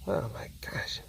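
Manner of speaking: whispering. Real, not acted. Whispered repeat.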